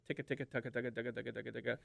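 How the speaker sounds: quick rolling double cut chatter; double cut feed chatter. Shown as a demonstration. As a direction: rattle off the double cut rhythm. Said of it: "then there's the double cut".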